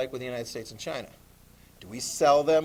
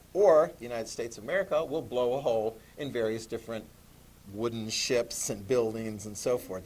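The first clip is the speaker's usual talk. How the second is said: menacing American threat; 4 semitones lower than usual. Retold or imitated. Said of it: "what did the United States say?".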